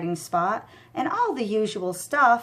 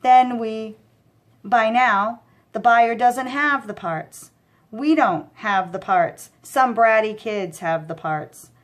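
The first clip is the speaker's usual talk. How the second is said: louder exasperated scolding; angry scolding; 5 dB louder than usual. Acted. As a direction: scold the dumb partner. Mikey scolding.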